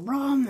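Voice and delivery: spoken "blam" like an explosion; imitated eruption burst. Vlogger showing how her silly words erupt, mock explosion. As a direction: burst it out as a sound effect.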